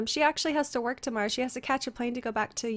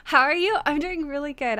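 lifted a little into her higher voice; higher register; 3 semitones higher, 5 dB louder than usual. Shown as a demonstration. Streamer greeting chat in her preferred higher register. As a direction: try the sentence in a slightly higher register. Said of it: "I really wanna talk in, like, a higher register".

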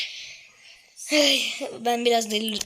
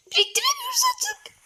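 sudden hushed whisper; a playful stage whisper. Pretend. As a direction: breathe it out secretly. Mock whisper while gaming.

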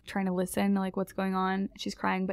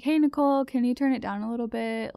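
courteous request; 4 semitones higher, 3 dB louder than usual. Retold or imitated. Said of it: "Just trying to be courteous".

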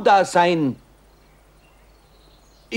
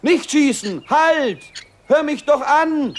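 urgent shout; 5 semitones higher than usual. Acted. Stopping hunter from shooting.

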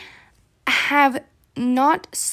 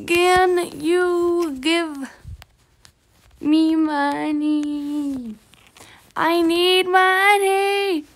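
slow pleading; 4 semitones higher, much slower than usual. Pretend. Beggar asks stranger for money.

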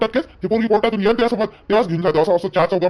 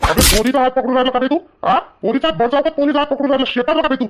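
cop scolding the harasser, rising and demanding; angry cop; 3 semitones higher than usual. Acted. Police officer scolds the man who grabbed a girl, angry.

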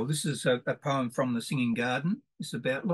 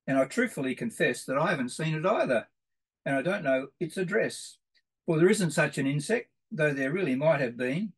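playful rhythmic reading of a nonsense poem; 2 semitones higher than usual. Acted. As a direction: tell it like a teasing riddle for kids. Reads nonsense insect poem.

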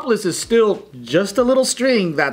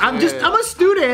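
put-on girly student voice; 9 semitones higher than usual. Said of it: "They're all like".

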